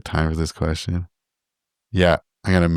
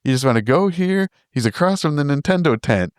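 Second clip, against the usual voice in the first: put-on eager old lady; 7 semitones higher than usual. Lady eagerly gives directions.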